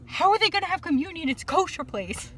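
high-pitched retold protest; mock loud outcry. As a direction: imitate grandmother loudly objecting, voice jumping up. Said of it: "or says really loudly".

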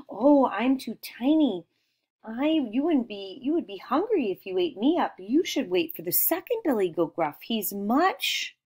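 lightly voiced pleading little goat; littlest goat. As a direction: plead gently, as a tiny goat talking its way out. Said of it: "how did the littlest goat get out".

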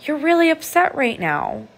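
put-on kneel down and calm an upset child; gentle, validating parent. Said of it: "look that child in the eyes and say".

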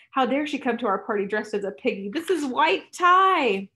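put-on haughty party girl sneering, slowing down at the end; snooty mockery. Snobbish pretty sneering at Tally's piggy mask. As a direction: look down your nose at her.

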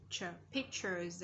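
"pictures" with the T said as CH. Shown as a demonstration. Teacher explains T becomes CH, slow "pictures" with CH. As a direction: slowly show the CH inside "pictures". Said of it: "âm T ở đây là âm ch".

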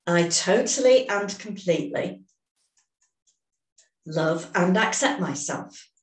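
slow, deliberate setup statement, every word placed; measured tapping affirmation; slow affirmation for repeating. Shown as a demonstration. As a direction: say it so they can echo you. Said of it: "start repeating after me".

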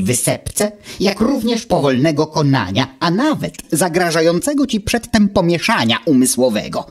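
lightly voiced know-it-all little machine, calm; a hint of a smug gadget lecturing; Wuch's voice. Wuch answers Automateusz from his ear, lightly voiced and calm.

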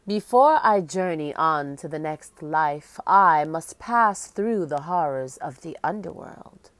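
lightly voiced ghostly queen, solemn; hollow echoing voice. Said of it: "She spoke in a hollow, echoing voice".

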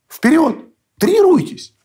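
high, sarcastic yelled orders; mocking shout. Real, not acted. Interviewee mocking the army's precision weapons, sarcastic yell. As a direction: bark it like a scornful drill sergeant. Mocking command to Russian army.

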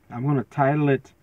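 throat clogged with mucus; frog in throat. Real, not acted. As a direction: talk through a frog in the throat. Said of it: "I got something in my throat".

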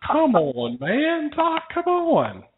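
high, drawn-out pleading whine, slow; patient whining to his doctor about no pizza, high and slow. Retold or imitated. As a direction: beg the doctor in a whiny high voice, stretching it out. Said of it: "I was like".

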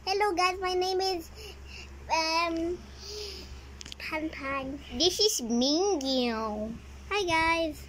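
cheerful squeaky toy introducing itself; bright little puppet voice. Acted. Voices toy character Pepper.

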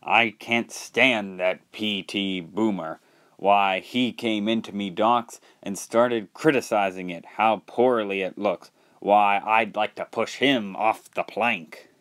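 put-on grouse like an old salt; grumbling sailor. Salty complaining about P T Boomer to Toby, grumbling. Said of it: "grumbled Salty".

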